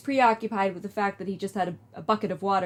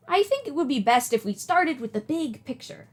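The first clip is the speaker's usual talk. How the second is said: put-on old lady voice; 4 semitones higher than usual. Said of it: "do an old lady voice".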